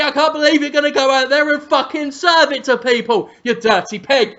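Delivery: hammed-up exasperated chef tirade; mock chef rant. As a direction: berate the kitchen in mock outrage. Acting out Gordon Ramsay kitchen rant.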